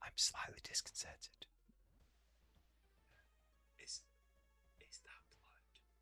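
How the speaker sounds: hushed whisper. Streamer in a silent game area talking to viewers; whispering. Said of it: "You can hear me whispering".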